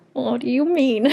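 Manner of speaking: high-pitched astonishment breaking into laughter; laughing disbelief. Retold or imitated. Healer stunned by client's answer, laughing disbelief. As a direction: say it incredulously, then laugh.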